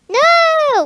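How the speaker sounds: high, loud mock protest; outraged shout. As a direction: yell it like an outraged friend.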